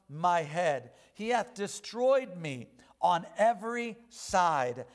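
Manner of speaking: measured pulpit recitation of scripture; solemn scripture reading. Acted. Reads Job nineteen aloud.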